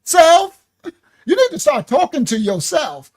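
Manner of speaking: Self called out high and loud with a cry; loud calling out. Shown as a demonstration. Teacher demonstrating self-talk, loud cry. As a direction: belt it out to yourself. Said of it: "teach y'all some self-reflection".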